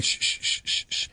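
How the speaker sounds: whispered shush; imitating dad shushing. Dad silencing son's success, whispered shush. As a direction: hush them breathily. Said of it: "my dad going".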